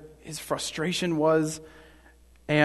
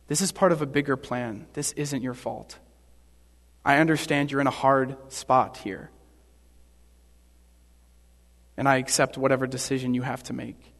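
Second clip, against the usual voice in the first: Jesus; 3 semitones lower than usual. Acted. Jesus accepting Pilate's decision, calm and understanding. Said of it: "Jesus just calmly, coolly says".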